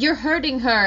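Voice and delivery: a mild retelling of an upset protest; a hint of Liam's upset protest. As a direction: imitate the upset boy, pitched a bit up. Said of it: "he grabs her and it's like".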